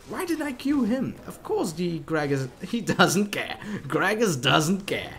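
loud angry rant. Real, not acted. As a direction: rant loudly at teammates. Raging at teammates.

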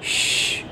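श breathed out soft with the tongue rolled. Shown as a demonstration. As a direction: hiss श with curled tongue. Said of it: "थोड़ा रोल कीजिए". (जीभ रोल करके श)

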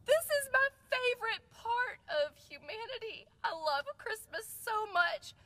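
high-pitched, effusive mock gushing; gushing gratitude. Telling man her favorite part of humanity, high gushing.

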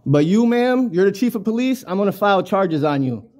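single them out and warn them; confrontational threat. Real, not acted. Man warns police chief he will file charges, confrontational.

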